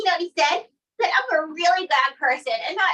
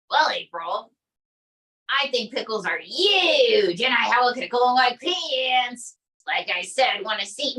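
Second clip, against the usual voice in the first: Trump impression. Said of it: "Donald J Trump".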